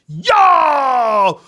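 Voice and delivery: long, high, falling holler; excited shout. Acted. Fan reliving the cavalry's arrival, hollering excitedly. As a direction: cheer out loud at the big entrance. Acting out cheering at the scene.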